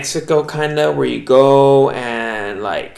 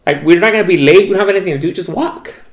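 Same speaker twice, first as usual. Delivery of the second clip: raised voice of an insistent friend; Kat; 5 semitones higher than usual. Retold or imitated. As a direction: imitate a friend brushing off objections. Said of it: "But Kat was like".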